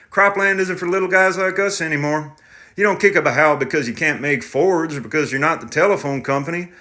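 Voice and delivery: defensive and pleading; tractor driver voice. Acted. Driver argues times changed.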